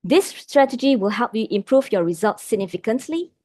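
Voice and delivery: significantly lifted high at the end, like asking; questioning upward tune on significantly; rising end. Shown as a demonstration. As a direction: end on significantly going up, as if unsure. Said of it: "I ended with a high pitch".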